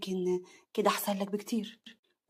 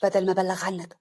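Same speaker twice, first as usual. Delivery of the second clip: understated threat, loud first then controlled; angry; 3 semitones lower, 3 dB louder than usual. Acted. Slim ordering his rival away, restrained anger. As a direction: threaten him with contained anger. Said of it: "سليم بغضب".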